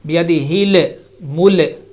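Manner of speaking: الملك with an extra short vowel bounced off the ل; imitated bouncing lam. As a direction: point up the mistake, springing off each ل in بيده الملك. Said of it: "So on these two lams".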